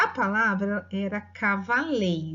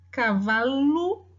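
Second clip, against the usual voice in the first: cavalo drawn out slowly, syllable by syllable; slowly sounded out; 3 dB louder, much slower than usual. Shown as a demonstration. Teacher sounding out cavalo slowly for the class. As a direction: spell cavalo out by ear.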